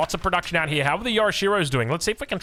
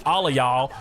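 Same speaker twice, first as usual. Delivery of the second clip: amused mock-American phrase; practised American "y'all", with a chuckle; American accent; 4 semitones lower than usual. Shown as a demonstration. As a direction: imitate an American saying it. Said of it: "practicing my American accent".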